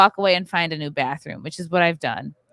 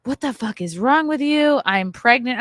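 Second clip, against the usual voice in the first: retold outburst; 5 semitones higher than usual. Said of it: "I was like".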